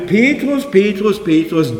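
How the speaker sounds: Petrus called three times, first high then falling; calling name thrice. Acted. Jesus calling Petrus, insistent call. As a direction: call him by name, then let it sink.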